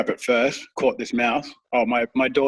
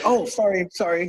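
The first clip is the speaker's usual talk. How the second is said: sheepish apology; 6 semitones higher than usual. Retold or imitated. Pavel apologizing for swearing.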